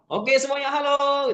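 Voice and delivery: very high drawn-out call; rallying yel-yel. Shown as a demonstration. Trainer to laughing participants, high rallying call. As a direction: sing out to gather everyone. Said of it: "Jadi ketika lagi ketawa".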